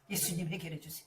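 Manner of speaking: low soft 예수님, 해결해 주세요; soft pleading prayer. Retold or imitated. Preacher acting his first quiet prayer, soft. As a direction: murmur the plea quietly. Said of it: "기도하기 시작".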